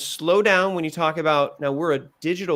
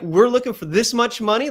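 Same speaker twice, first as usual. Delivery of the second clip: higher and louder with energy; energetic pitch; 5 semitones higher, 4 dB louder than usual. Shown as a demonstration. Coach showing the pitcher an energetic money ask. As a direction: pop it up. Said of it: "pop it up a little bit".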